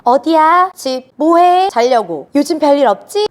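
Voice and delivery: imitating a grown child rattling off quick dutiful questions; a touch of mock impatience, just wanting to hang up; bored, hurried phone check-in. Grown child quickly checking in on parents by phone, mildly impatient. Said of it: "귀찮거든".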